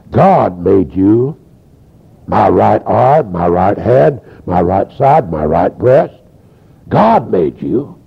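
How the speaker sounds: slow, low, measured declaration; solemn retold prayer. Woman accepting her body at the altar, solemn retold prayer. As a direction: imitate a woman praying slowly and deliberately.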